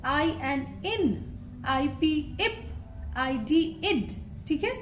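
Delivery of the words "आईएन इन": आईएन then इन, drawn out and soft; soft slow phonics; slow, soft demo. Shown as a demonstration. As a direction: say इन slowly and softly. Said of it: "आई की blending देखिए यहाँ पे".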